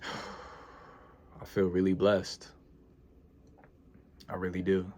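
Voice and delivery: slow, soft, teary with sighs; holding back tears while counting blessings; choked up. Real, not acted. Vlogger telling followers she feels blessed, near tears. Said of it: "I'm not gonna cry on here".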